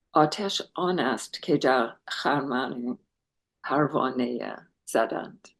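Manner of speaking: reciting Persian poetry quickly with an English speaker's accent; fast, reverent recitation of a Persian ghazal in a foreign accent; a Persian couplet recited fast in an American accent; Persian verse, English accent. Shown as a demonstration. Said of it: "Please forgive my terrible Persian accent".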